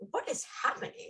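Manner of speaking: breathless, stunned whisper; 어리둥절하게 속삭이듯; bewildered whisper. Retold or imitated. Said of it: "I'm like".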